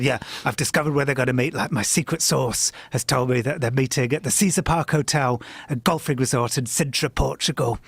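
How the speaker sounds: put-on light semi-American accent as Jim Tucker; a hint of an American accent, lightly voiced. Quoting Jim Tucker on the phone about the secret meeting, light American accent. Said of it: "I apologize for my semi-American accent".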